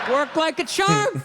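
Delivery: slow, laughing repeat. Real, not acted. Comedian gloating to the crowd, slow and laughing. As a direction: savor it with a chuckle.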